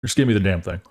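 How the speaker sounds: low, grumbled demand like a fed-up father; a lightly voiced gruff dad; impatient dad. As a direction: mutter it like a dad out of patience. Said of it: "my dad would be like".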